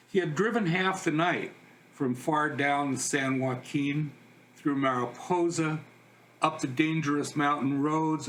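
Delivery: measured poem recital, pausing between phrases; unhurried poet at a reading; poetry reading. Acted. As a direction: read it as verse, line by line. Reads a poem aloud.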